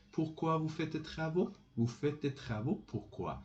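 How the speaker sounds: "travaux" lifted at the end, final "pourquoi" dropping; question by intonation. Shown as a demonstration. Teacher showing intonation questions, "travaux" rising, "pourquoi" falling. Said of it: "This is with intonation".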